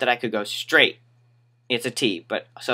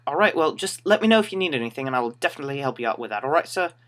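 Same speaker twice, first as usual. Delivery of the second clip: customer-service politeness; 2 semitones higher, faster than usual. Retold or imitated. Store worker offering a customer help, strained politeness.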